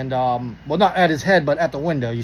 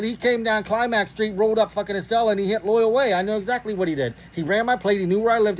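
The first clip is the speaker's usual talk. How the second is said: higher, insistent recounting; heated protest; 4 semitones higher than usual. Retold or imitated. Driver details the cop's route to officer, insistent protest. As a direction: act out pressing your case, voice kept up.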